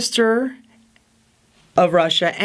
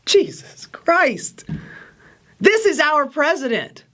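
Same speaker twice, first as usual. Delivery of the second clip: whispered dismay; 5 semitones higher than usual. Real, not acted. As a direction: breathe it out in despair. Dismayed aside about the president.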